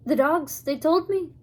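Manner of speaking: put-on a light, amateur Scottish accent for the old man; old Abner steadies the hidden children in a mild Scottish accent. Abner, lightly Scottish, tells them to stay in the wagon. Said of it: "not very fluent in Scottish accents".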